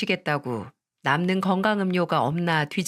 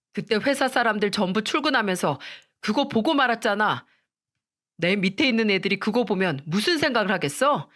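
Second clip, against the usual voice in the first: irritated snapping; 2 semitones higher than usual. Acted. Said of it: "저에게 버럭 짜증을 내는 겁니다".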